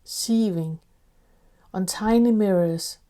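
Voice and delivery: poetry reading. Acted. Host reads a poem for listeners to sit and listen, measured poetry reading. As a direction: recite it quietly, letting each phrase rest.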